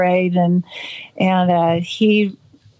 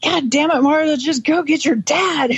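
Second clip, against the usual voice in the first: higher, harsh retold outburst; frightening tone; 7 semitones higher than usual. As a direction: bark it at a scared child. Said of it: "in such a tone that it actually frightened me".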